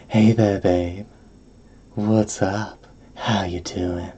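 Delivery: soft, breathy come-on voice; breathy hollywood starlet. Pretend. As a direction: purr it like a screen siren. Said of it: "Oh, I can do a breathy voice".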